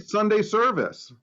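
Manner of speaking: slow, drawn-out preacher announcement; hammed-up Sunday preacher; mock preacher.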